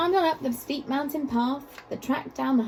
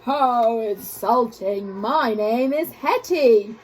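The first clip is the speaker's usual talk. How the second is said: slow, loud offended monster voice; angry monster growl; 5 dB louder, slower than usual. Acted. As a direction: drag it out, deeply insulted. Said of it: "with the angriest growl".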